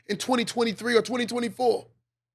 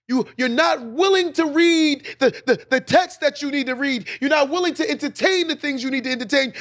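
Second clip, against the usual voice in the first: raised-pitch motivational preaching; impassioned preaching; 3 semitones higher than usual. Real, not acted. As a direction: drive each repeated line home like a preacher. Preaches at full force.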